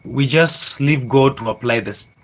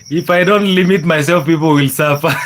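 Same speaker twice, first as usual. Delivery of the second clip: amused chat reading; 3 semitones higher, 4 dB louder than usual. Real, not acted. Reads viewer's chat, amused.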